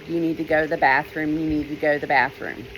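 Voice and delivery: low, quick urging inner voice; a voice in her head pushing her; insistent whispering thought, lightly voiced. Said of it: "thought pressed into my mind that said".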